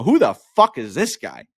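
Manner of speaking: mildly loud mock outburst. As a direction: blurt it to the whole group. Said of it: "out loud".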